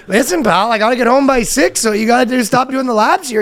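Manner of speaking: high mock Canadian bickering; grudging put-on Canadian accent. Feuding pair forced to share a vacation, Canadian accent. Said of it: "the most Canadian interaction".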